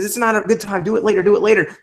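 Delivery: high nagging little voice; high mock voice of doubt; little inner voice. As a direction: coax in a high, whiny inner voice. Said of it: "You get this little voice that says".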